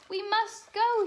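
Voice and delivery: storybook urgent cry out. Acted. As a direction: sound the midnight alarm to her friend. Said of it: "she cried".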